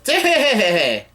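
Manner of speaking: high, drawn-out stuttering monkey call; monkey cry. Retold or imitated. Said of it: "turns out to be a monkey".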